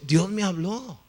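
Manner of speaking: emphatic retold insistence; insistent claim. Drunkard repeats claim more firmly.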